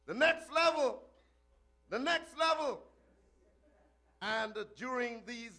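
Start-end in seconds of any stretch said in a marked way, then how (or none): 0.1-2.9 refrain. Acted. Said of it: "the refrain was renewed".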